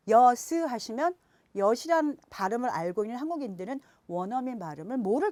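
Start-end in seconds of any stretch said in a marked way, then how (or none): 0.1-0.5 여스 slowly in two syllables; separated final s. Shown as a demonstration. Teacher showing the mistake, 여스 split in two. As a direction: give the s its own beat in 여스. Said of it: "이 시옷을 따로 발음해서".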